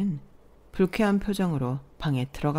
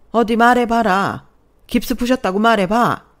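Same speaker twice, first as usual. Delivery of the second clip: furious mother-in-law; 4 semitones higher, 8 dB louder than usual. Acted. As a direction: dare her to say it again, enraged. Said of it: "대노한 시어머니 목소리가 들렸어요". (대노한 시어머니처럼 크고 느리게)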